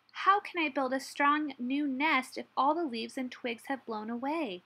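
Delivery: high, worried storybook question; anxious. A narrator's reading. Hedgehog worrying to Badger about his nest, anxious. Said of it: "he asked anxiously".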